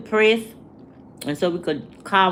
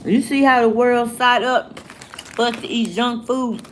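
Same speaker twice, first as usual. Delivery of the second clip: words through a laugh; amused, laughing rhetorical question; 3 semitones higher than usual. Real, not acted. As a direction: chuckle while you ask. Laughs while asking.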